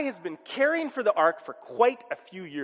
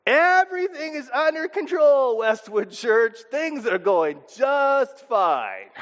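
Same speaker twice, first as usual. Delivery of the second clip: forced cheerful reassurance; 4 semitones higher than usual. Retold or imitated. Pastor imitating his own calm front.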